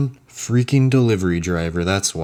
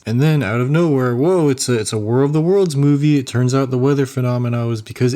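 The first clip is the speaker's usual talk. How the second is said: higher-pitched pretend plot-twist reveal; mock surprise; 4 semitones higher than usual. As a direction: play up the sudden twist in mock amazement.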